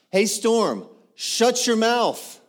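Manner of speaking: high, drawn-out shouted command; rebuking the storm. Acted. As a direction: order the storm to hush. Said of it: "He rebuked the wind".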